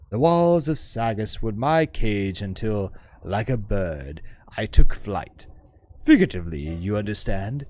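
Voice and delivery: lightly voiced learned woman, wistful; poised scholar woman. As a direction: speak as a refined, self-assured scholar. GM voices the hive-mind woman.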